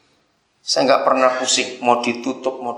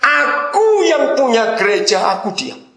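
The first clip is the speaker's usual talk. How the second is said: voice of God; 9 semitones higher than usual. Acted. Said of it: "Dengarkan ini".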